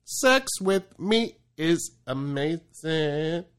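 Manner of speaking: slow drawn-out braggy voice; slow mock boast. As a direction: deliver it like a smug boast. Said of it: "you made a joke about that".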